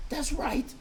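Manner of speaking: put-on high, loud emphatic child; emphasized everything. Sister eggs daddy on, high and emphatic. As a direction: hammer each phrase home. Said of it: "My sister emphasized everything".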